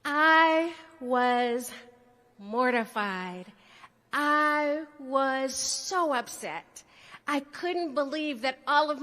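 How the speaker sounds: mock tragic. Mock-tragic reaction, slow.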